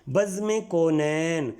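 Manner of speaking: "بزم کونین" slowly as bazm-e kau-nain; careful pronunciation. Shown as a demonstration. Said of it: "میم کے نیچے زیر آئے گی".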